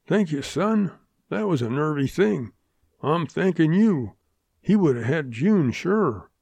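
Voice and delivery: earnest thanks, lightly in character; a touch of grateful Western townsman; lightly voiced Pop Turner, grateful.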